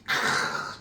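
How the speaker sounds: long voiceless throaty sigh of approval; admiring "kh" exhale. Real, not acted. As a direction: let out an impressed, rasping "keu". Admiring student's effort, then praises.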